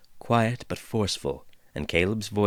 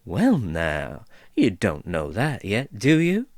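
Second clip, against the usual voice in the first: musing dwarf; 4 dB louder, slower than usual. Acted. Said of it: "mused the voice".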